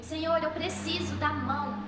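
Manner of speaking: drawn-out, slow supplication; retold desperate plea. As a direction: beg slowly, stretching each word. Beggar pleading with Jesus.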